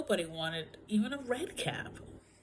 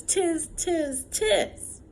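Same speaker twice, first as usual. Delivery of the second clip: high, loud mocking monkey noise; chattering monkeys; 7 semitones higher, 5 dB louder, much slower than usual. A narrator's reading. Monkeys stamping back at the peddler, loud and teasing.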